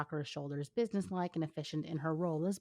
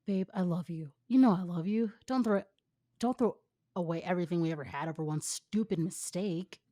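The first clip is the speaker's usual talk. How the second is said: put-on begging boyfriend; 4 dB louder than usual. Boyfriend begging girlfriend not to leave.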